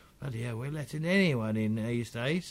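muttering under breath. Narrator voicing a character who looks over the group: muttering under his breath. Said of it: "you definitely hear him mutter under his breath".

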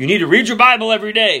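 high, sarcastic, mocking tone. Talking about looking for God, the speaker repeats an often-heard saying, mocking it. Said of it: "I am mocking that".

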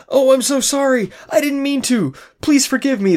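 frantic, high, panicked harpy-like creature screech. Narrator voicing the harpy in the story, panicked harpy screech. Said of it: "The harpy screeches in panic".

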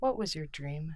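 soft, gentle voice. Inching closer to the other speaker, asking a question; softly. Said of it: "Nor asked softly".

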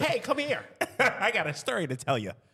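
mock corporate voice, high and laughing.

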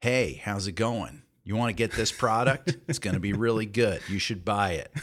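very dry, utterly flat voiceover read. Demonstrating an ad style in vogue at the time, the speaker gives a very dry read. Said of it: "Was the very dry read".

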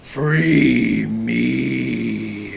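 eerie, creaky, deep and rough spooky monster voice. In a tabletop game, using thaumaturgy to fake a monster's voice; spooky monster voice. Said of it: "have like a spooky monster voice be like".

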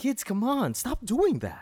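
put-on angry whisper. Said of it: "if he's sincere, just a whisper, but he's still angry".

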